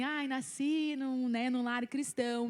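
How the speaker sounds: slow, drawn-out church cliché; mocking how everyone says it, slowly. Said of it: "a gente fala assim".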